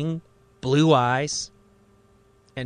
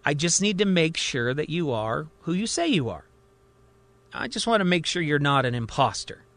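calm. Acted. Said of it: "looks up at him calmly".

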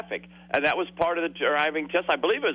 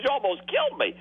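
mock scared examiner; 11 semitones higher, faster than usual. Caller voicing the scared examiner.

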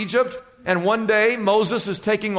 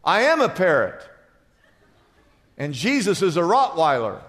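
parrot punchline; 4 semitones lower than usual. Acted. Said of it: "And the parrot says".

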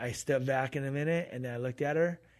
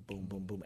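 imitated impacts; 6 semitones lower, 12 dB quieter than usual. Imitates message hitting home.

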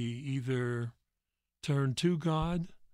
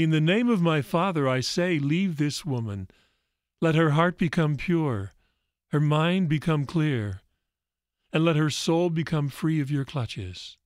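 louder, commanding words cast out the evil; firm command; 4 semitones higher, 8 dB louder than usual. Acted. Jesus firmly ordering the evil out of the woman, commanding voice. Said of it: "Jesus said firmly".

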